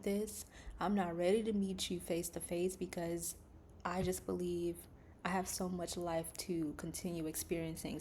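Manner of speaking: imitating a whispered prayer of pleading. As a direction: beg God not to take you yet. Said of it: "but really pleading with God".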